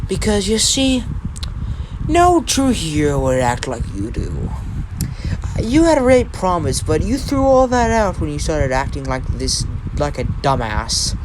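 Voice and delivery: lecturing a rival with wide pitch swings; condescending Deku. Acted. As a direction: talk down to a disappointing opponent. Voices Deku scolding a rival.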